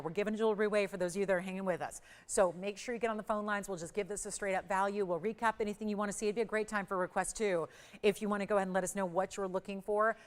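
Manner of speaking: talking through a face mask; muffled as if through fabric. Real, not acted. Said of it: "I'm sorry I'm muffled".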